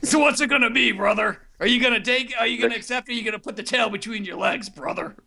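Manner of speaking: challenging wrestler promo. Acted. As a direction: taunt like a pro wrestler.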